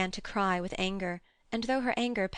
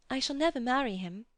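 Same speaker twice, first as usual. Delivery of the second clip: quavering; 5 semitones higher, faster than usual. A narrator's reading. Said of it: "quavered Lucy".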